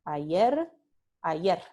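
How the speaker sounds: ayer with a devoiced final r; voiceless final r. Shown as a demonstration. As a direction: drop the voice on the r of ayer. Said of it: "se dice ayer".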